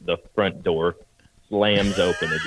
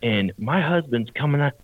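mock threatening lady; 6 semitones higher than usual. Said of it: "then she goes".

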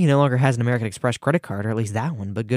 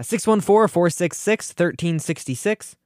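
higher, clearly spelled-out number; emphatic; 5 semitones higher, slower than usual. Real, not acted. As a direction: stress each digit for listeners.

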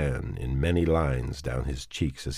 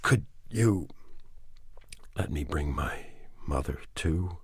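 stiff; 5 dB quieter than usual. Acted. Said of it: "the man asked stiffly".

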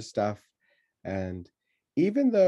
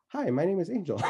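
put-on cheerful little-kid greeting; 9 semitones higher, faster than usual. Four-year-old introducing herself.

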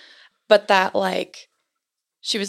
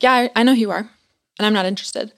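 aggressive tone; 2 semitones higher, 5 dB louder, faster than usual. Retold or imitated. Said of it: "had this kind of, like, aggressive tone of voice".

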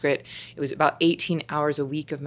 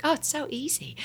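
bad high-pitched Australian accent; softer, breezy Australian accent; 11 semitones higher, 6 dB quieter than usual. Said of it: "my bad Australian accent".

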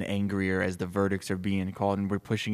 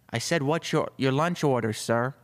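higher-pitched assistant repeating a question; raised, polite office-assistant voice; assistant's voice; 4 semitones higher than usual. Acted. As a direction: ask the boss brightly for his order. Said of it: "his assistant standing in the office".

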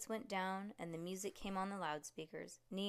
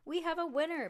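high, loud winner call; announcer proclaiming; 9 semitones higher, 8 dB louder, faster than usual. Acted. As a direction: announce it to the whole alley.

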